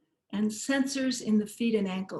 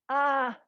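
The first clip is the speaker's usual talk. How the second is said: higher-pitched "ah" mid-stretch; stretching groan; 4 semitones higher than usual. Shown as a demonstration. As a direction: let out a stretching noise. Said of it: "it's okay to make a noise".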